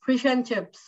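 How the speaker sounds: fish and chips with "and" reduced to "un"; unstressed "and", no full vowel or d; weak form AND. Shown as a demonstration. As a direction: run the words together, "and" barely told. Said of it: "and is not told completely".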